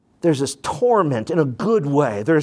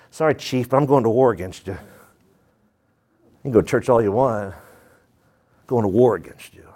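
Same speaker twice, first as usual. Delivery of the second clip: stern God warning; 5 semitones lower than usual. Retold or imitated. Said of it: "God's like".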